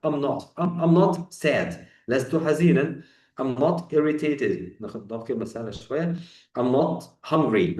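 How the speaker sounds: "I'm not" said slowly and clearly; contracted examples. Shown as a demonstration. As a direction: model each example for repetition. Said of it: "بص بسرعة". (أمثلة مختصرة بنطق واضح)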